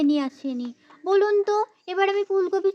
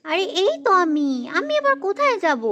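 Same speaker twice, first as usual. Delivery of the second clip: irritated retort. Acted. Wife answers irritated.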